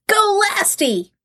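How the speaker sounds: slow cheerleader "Go, Lasty"; rooting for yourself; cheering. Pretend. Cheering self on.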